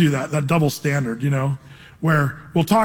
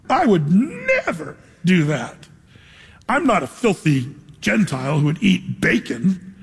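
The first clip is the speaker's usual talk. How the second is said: slow, mock-haughty Peter, lightly voiced; self-righteous. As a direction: look down your nose, word by word. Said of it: "a little bit of self-righteousness".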